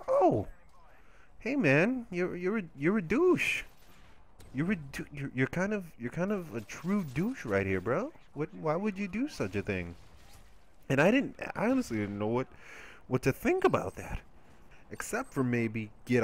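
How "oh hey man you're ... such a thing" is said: mock scolding. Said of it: "I'm like".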